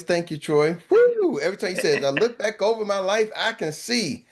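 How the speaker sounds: a lightly put-on church lady thanking Troy; Miss Rita voice. Thanking Troy on the call as a lightly voiced church lady. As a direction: play a churchy auntie, with a whooping cheer at the end. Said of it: "in my Miss Rita voice".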